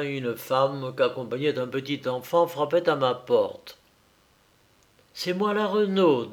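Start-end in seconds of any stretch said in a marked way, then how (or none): 5.1-6.3 higher, smiling peasant woman's greeting; smiling introduction. A narrator's reading. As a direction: introduce yourself with a smile. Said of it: "dit-elle en souriant". (présentation souriante, voix plus haute)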